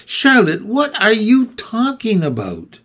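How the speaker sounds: high-pitched, alarmed questioning; dismayed cry. A narrator's reading. Wilbur demands an explanation from Charlotte, crying out high. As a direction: cry it out in disbelief. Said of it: "he cried".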